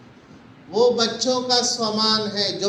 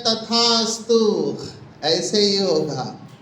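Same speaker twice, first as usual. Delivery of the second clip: voice of the inner mind; slower than usual. Acted. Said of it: "हमारा अंतर मन कहता है".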